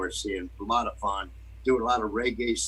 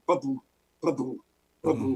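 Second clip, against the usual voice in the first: short vocal "ba-boom" blasts; imitated firework booms; 2 semitones higher than usual. Imitating late-night fireworks he kept hearing, imitated booms. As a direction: mimic the pops of fireworks going off.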